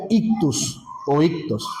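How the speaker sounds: ictus o ictos said IK-toos or IK-tohs, hard k before the t; correct pronunciation. Shown as a demonstration. Pastor telling the congregation how to say the fish word, IK-toos or IK-tohs. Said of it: "Esa palabra se pronuncia".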